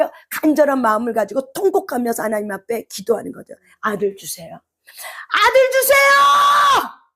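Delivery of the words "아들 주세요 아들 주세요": desperate wailing plea. Acted. Hannah begging God for a son, slow wailing shout.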